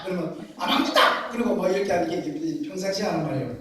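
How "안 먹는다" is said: higher gruff Gyeongsang refusal, affectionate underneath; mock fight shout. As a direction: snap it back lovingly, like a quarrel. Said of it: "싸우는 게 아니라 정말 사랑스럽게". (정답게 쏘아붙이는 경상도 말투)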